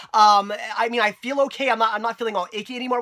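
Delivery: stuffy nose, talking through a head cold; congested voice. Real, not acted. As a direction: sound blocked up from a cold. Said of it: "but I'm all congested, and it's making it very difficult to talk".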